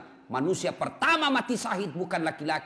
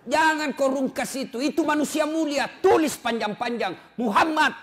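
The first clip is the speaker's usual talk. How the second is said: higher, louder insistence; louder, higher preacher's demand; forceful preaching; 9 semitones higher, 6 dB louder than usual. Acted. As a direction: drive the point home.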